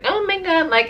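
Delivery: high-pitched mocking "oh my God"; mock whiner. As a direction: put on a fussy, high-pitched complainer. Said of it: "I'm not one of those, like".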